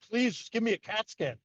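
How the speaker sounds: mock exasperated plea; arguing. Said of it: "I was arguing with them".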